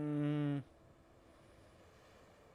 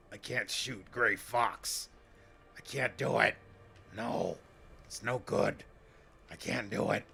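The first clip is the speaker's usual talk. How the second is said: acted anguish. Acting out game character's refusal.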